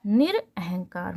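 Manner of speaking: निरअहंकार slowly split into निर and अहंकार; slow breakdown. Shown as a demonstration. Teacher splitting the word to show its roots, slowly. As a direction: draw out निरअहंकार syllable by syllable. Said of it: "मतलब कि".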